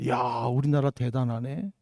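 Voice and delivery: low, soft murmur of pride; hushed, low-pitched wonder; delighted admiration. Retold or imitated. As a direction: marvel quietly at your own country. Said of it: "얼마나 좋은지 몰라".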